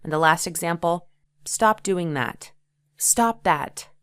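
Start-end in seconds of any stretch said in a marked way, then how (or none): 1.4-2.5 firm. Shown as a demonstration. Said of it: "when you want to express". 3.0-3.9 emotional. Shown as a demonstration. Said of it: "express great emotion".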